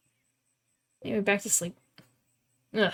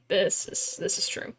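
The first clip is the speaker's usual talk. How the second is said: whispered; 2 semitones lower, 7 dB quieter than usual. Real, not acted. Sleepy agreement.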